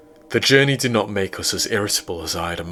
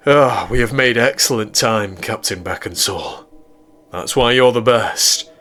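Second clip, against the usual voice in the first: lightly voiced eager scientist, buoyant; a hint of an enthusiastic doctor addressing his captain; Irwin, eager doctor; 2 semitones higher, 4 dB louder than usual.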